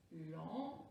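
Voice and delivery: "Lendemain" soft and low, long silences between syllables; découpage syllabique. Shown as a demonstration. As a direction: leave time after each syllable of "Lendemain". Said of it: "On corrige". (« Lendemain » tout bas, avec de longues pauses entre syllabes)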